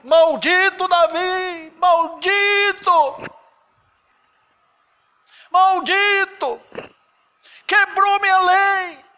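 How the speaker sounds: slow, high thundering condemnation; shouting. Retold or imitated. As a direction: bellow it down from the mountain. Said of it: "É a lei gritando lá de cima do Monte Sinai".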